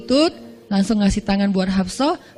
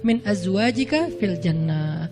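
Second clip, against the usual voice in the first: Jibril's command; 2 semitones lower, slower than usual. Acted. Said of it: "kata Jibril".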